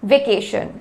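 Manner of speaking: वेकेशन run together, vi-KAY-shun; said quickly. Shown as a demonstration. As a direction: shorten the first syllable of वेकेशन. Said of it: "जल्दी जल्दी बोलेंगे तो".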